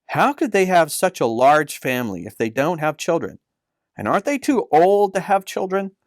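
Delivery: put-on a young girl puzzling it out; child Leah asking. Leah, a child, questions uncle.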